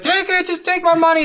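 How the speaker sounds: very high, pleading squeal; begging cyclops. Retold or imitated. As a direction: shove the money at the hero in mock panic. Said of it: "And he's like".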